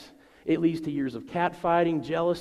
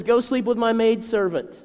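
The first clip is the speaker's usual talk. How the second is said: emphatic reading; 6 semitones higher, 6 dB louder than usual. Retold or imitated. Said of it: "But she says".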